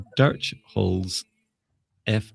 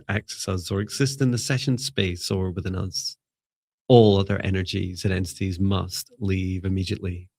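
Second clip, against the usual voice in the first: measured, evenly pitched opening prayer; spoken invocation. Acted. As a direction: set the sacred space with steady, deliberate phrases.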